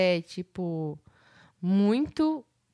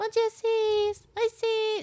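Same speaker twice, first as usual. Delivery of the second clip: put-on little voice, pitched higher. Imitating how a friend's text messages always greet: imitating Gabi's little voice. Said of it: "Com essa vozinha".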